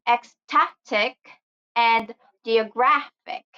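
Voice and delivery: "ecstatic and geographic", stressing STA and GRA; stress on second-to-last syllable. Shown as a demonstration. Teacher demonstrates the I C rule, stressed STA and GRA in "ecstatic and geographic". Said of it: "stress the second to the last".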